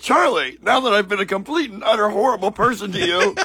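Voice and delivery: Willy Wonka impression. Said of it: "He goes".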